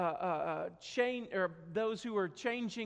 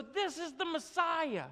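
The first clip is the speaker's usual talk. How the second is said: awed realization; 7 semitones higher than usual. Acted.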